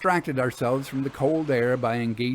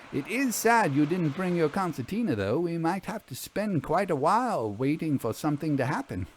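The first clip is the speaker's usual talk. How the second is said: lightly voiced Vera, a touch higher; 4 semitones higher than usual. Vera explains the oboes.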